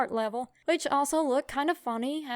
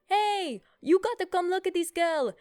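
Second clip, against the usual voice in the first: imitated Indian-accented holler, pitched much higher; yelling Indian nurse; 8 semitones higher, 4 dB louder than usual. Nurse calling colleagues to come look, mock yell in Indian accent. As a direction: call out like the Indian nurse, lilting and high. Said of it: "this lady yelling at the top of her lungs".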